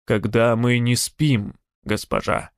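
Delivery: slow, sleepy grumbling; grumpy. Acted. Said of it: "Ворчливый голос Эйши".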